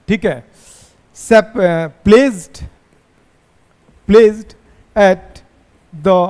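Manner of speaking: very slow, word by word, for copying notes; slow dictation. Shown as a demonstration. Teacher dictating to the class, very slow and drawn out. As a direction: spell it out slowly so students can write. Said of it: "dictating notes slowly to class".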